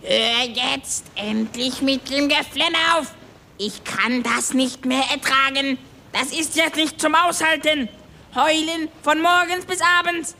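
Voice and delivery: fed-up scolding in a high, strained pitch; furious. Acted. Klaus scolds the crybaby from the mast, high angry rant. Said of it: "Er war stinksauer".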